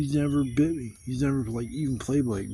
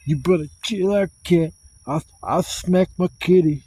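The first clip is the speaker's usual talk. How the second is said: raised warning to the cat; scolding the cat; 4 semitones higher, 3 dB louder than usual. Retold or imitated. Warning his rough-playing cat, raised mock scold. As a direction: tell the cat to chill out, getting louder.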